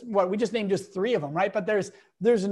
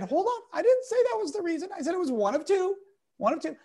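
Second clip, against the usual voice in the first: high-pitched, defensive correction; retold protest; 8 semitones higher, faster than usual. Speaker correcting an angry CEO in front of the room, high-pitched protest. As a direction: push back in a raised pitch, imitating the exchange.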